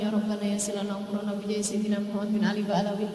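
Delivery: quick Arabic supplication recited from memory; father's Arabic prayer, said fast; Arabic prayer quoted. Retold or imitated. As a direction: rattle off the prayer as father says it. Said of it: "Abah bilang".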